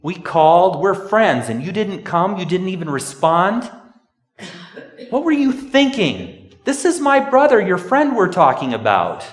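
loud, high, indignant outburst at a friend; rising fury, a sister scolding Jesus; Martha's loud, high, indignant rebuke of Jesus for coming late; exasperated scolding. Retold or imitated. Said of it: "She's saying".

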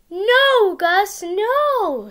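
calling out. Acted. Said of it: "said Sam".

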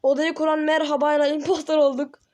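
thrilled gamer outburst; excited announcement. Real, not acted. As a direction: announce the win to the viewers.

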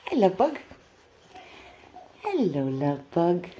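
pet greeting. Real, not acted. Owner greeting her pet tenderly. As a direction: coo at the pet.

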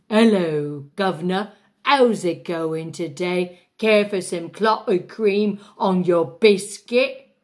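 hammed-up English accent, a bad put-on; mock cockney offering clotted cream. Shown as a demonstration. Diva demonstrating her English accent, hammy. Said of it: "I choose English".

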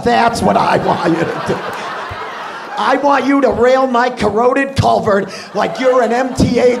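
loud, brash Boston wife yelling in bed; Boston accent. Retold or imitated. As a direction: shout it like a crude Boston housewife. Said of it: "that is the sound that comes out of everybody's face".

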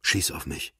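a hushed repeated plea; repeated quietly. A narrator's reading. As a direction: say it again under her breath. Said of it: "wiederholte sie".

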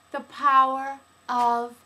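breathy whispered slogan; whispered tagline. Shown as a demonstration. Host whispers the slogan to close the video.

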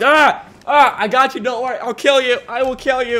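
high, silly mock battle cries; put-on high voice, playful threats; imitating himself fighting. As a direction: act out a goofy attacker. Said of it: "trying to imagine myself, how it look to other people".

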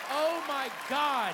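ordinary talk

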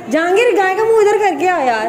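high, loud call by name; shouting down. Real, not acted. To Jahangir below about the cow's face, a loud shout. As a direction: call out across the yard.

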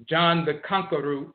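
"Conqueror" said as KONK-uh-roo; dialect pronunciation. Shown as a demonstration. Lecturer proving the root's name, "Conqueror" as konk-uh-roo. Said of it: "not conqueror root".

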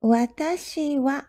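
careful Japanese Watashi wa; Japanese phrase. Shown as a demonstration. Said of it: "if you are to introduce yourself".

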